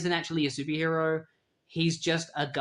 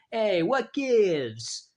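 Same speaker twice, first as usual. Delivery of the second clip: dazed broken-neck voice; 6 semitones higher, 4 dB louder, much slower than usual. Retold or imitated.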